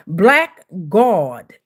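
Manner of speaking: "God" drawn out with an aw vowel; slow, rounded "Gawd" for "God". Real, not acted. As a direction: stretch "God" slowly into "Gawd". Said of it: "God with the G A W D".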